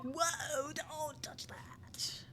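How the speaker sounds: hammed-up French bellboy; high, drawn-out mock French accent; crazy French accent. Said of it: "very crazy French accent".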